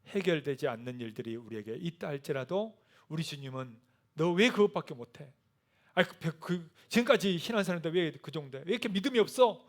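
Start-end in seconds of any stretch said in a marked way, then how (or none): 4.1-9.7 mock scolding. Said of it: "라고 혼내는 게 아니고요".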